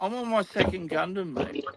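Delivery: lightly put-on Aussie accent, laid-back; an understated Aussie twang; mock Aussie accent. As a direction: play a lazy Australian bloke. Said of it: "you know your accent's bad when Australians can't understand".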